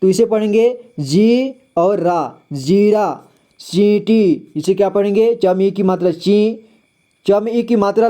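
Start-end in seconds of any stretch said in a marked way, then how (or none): 1.0-1.5 जी with the ee held a bit long; slightly lengthened vowel. Shown as a demonstration. Teacher showing long matra, जी with lengthened ee. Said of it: "थोड़ा उच्चारण लंबा करेंगे". 2.5-3.2 जीरा with a long first ee; slightly lengthened vowel. Shown as a demonstration. Teacher reading the word, जीरा with drawn-out ee. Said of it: "इसका उच्चारण थोड़ा लंबा करेंगे".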